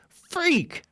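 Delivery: high, breathy whispered gasp; shocked whisper. Acted. Reads alarming letter.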